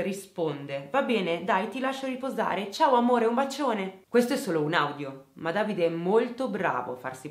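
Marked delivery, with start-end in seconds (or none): 0.9-4.0 calm like a clerk. Retold or imitated. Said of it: "tranquillo come un impiegato alle poste".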